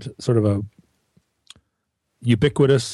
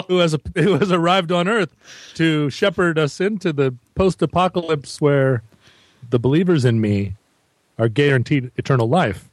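mock messiah; 3 semitones higher than usual. Guest mock-proclaiming himself to the host, pompous. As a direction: proclaim yourself the saviour, tongue in cheek.

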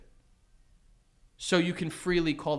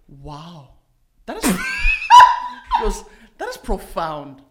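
put-on Sly's accent; 10 dB louder than usual. Retelling friend Sly's praise in a light mimicked accent. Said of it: "he has an accent".

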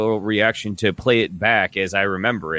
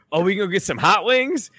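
higher-pitched mock French accent; imitated French accent; 8 semitones higher than usual. Podcaster mimics Giannis asking his friends for wings, imitated French accent. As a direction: ask eagerly in a put-on French accent. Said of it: "you doing the accent".

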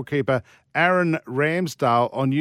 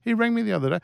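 pointed repeat; 7 semitones higher, faster than usual. Shown as a demonstration. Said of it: "Do you like the way I just dropped in that".

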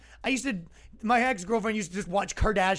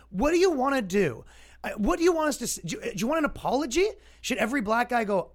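pitched-up, exasperated questioning; incredulous challenge; 5 semitones higher than usual. Real, not acted. To critics, exasperated high questions. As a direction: demand what they actually want.

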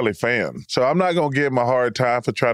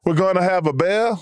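mock Boston accent; 5 semitones higher than usual. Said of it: "They, they said".

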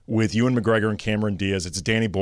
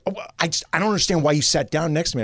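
put-on indignant old lady; 4 semitones higher, much faster than usual. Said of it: "she's like".

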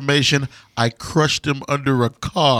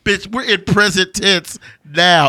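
higher, fast, hammed-up villain rant; mock villain rant; 5 semitones higher than usual. Co-host imitating the villain scolding the hero. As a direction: rant like a smug movie villain.

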